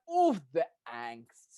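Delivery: slow, loud, drawn-out groan at the drama; dramatic sigh over angst. Retold or imitated. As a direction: savor the angst with mock despair. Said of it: "I was like".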